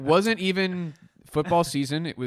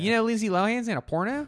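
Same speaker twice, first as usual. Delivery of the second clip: high, lightly voiced Pittsburgh parking-lot guy; a coworker at the parking lot spreading gossip, Pittsburgh accent; 9 semitones higher, 3 dB louder, faster than usual. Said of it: "impression of a Pittsburgh man".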